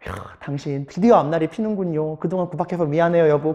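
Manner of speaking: lightly voiced wife, toned down; relieved wife. Wife apologising to her husband, softened. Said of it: "늘 남편 구박만 하고 한숨만 내쉬던 아내도".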